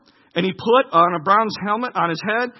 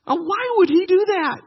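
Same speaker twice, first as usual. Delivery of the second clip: higher, louder preacher's astonished question; amazed question; 11 semitones higher, 4 dB louder than usual. Real, not acted. Preacher asks his congregation about David, higher and amazed. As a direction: ask it in real wonder.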